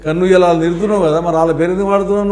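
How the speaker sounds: loud, fast, indignant questioning; heated challenge. Real, not acted. Heated argument over the family name. (ఆవేశంగా గట్టిగా ప్రశ్నించడం)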